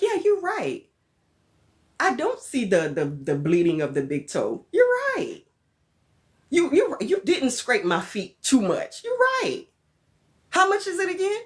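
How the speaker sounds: high, whiny mock agreement through pain; meek high client voice. Customer at the salon, agreeing in a high whiny voice.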